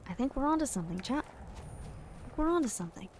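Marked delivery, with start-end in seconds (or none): 1.3-3.1 higher and softer, a playful put-on voice; high soft mock. Telling chat they're onto something, high soft mock. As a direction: say it again up high and hushed, teasing. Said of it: "repeats line to chat".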